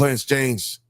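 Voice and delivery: deliberately bad New York accent; mock New York delivery; terrible New York accent. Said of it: "intentionally doing a terrible New York accent".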